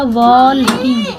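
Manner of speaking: वॉकिंग drawn out slowly, wo-king; slow demo pronunciation. Shown as a demonstration. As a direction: spell out वॉकिंग slowly for the class. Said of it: "लेकिन ये है क्या?".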